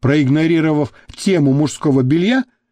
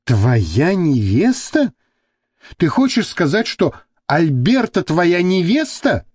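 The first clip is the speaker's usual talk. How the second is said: disbelieving; 3 semitones higher than usual. Acted. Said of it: "не поверила своим ушам Мириам".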